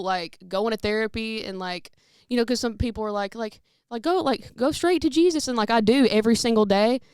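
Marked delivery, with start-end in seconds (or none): 4.0-5.5 mock preachy advice. People's advice quoted loudly.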